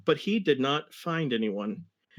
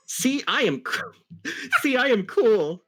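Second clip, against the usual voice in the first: laughing cool brag; 9 semitones higher, 3 dB louder than usual. Acted. Character quote with laugh.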